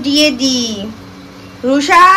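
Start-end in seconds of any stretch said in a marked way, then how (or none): 1.7-2.0 raised, rising call of the name. Real, not acted. Mother calling her daughter Rusha from afar.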